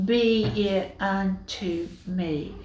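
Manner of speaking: quiet surrender. Acted. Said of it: "I'm just going to submit and say".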